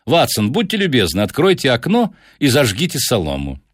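lightly voiced detective, politely reassuring; Holmes, courteous. Holmes answers irritated Lestrade politely.

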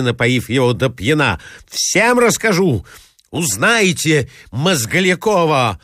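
indignant threat. Acted. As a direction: threaten to tell the whole town. Insulted suitor threatening scandal. (высокий, мстительный выкрик)

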